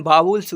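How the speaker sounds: वावल्स said as "baa-vuls"; corrected "-vuls" in वावल्स. Shown as a demonstration. Teacher repeating the correct form, वावल्स as "baa-vuls". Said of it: "क्या पढ़ते हैं".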